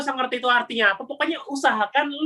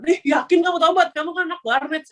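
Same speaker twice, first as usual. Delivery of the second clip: higher-pitched teasing disbelief; lightly voiced teacher doubting a pupil; mock skeptical teacher; 8 semitones higher than usual. Teacher doubting the internet-café kid's repentance, higher, mocking disbelief. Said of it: "saya dikatain gitu".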